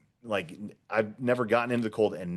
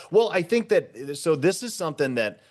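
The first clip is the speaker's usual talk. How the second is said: laughing; 9 semitones higher, 6 dB louder than usual. Real, not acted. Laughing after cold plunging comes up.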